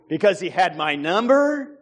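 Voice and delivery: normal talking voice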